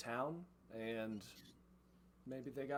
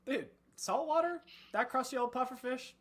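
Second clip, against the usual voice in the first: much higher, louder surfer scoff; scoffing surfer bandit; 13 semitones higher, 6 dB louder than usual. Acted. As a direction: sneer at the mayor like a surfer bro. GM voices surfer bandit mocking mayor.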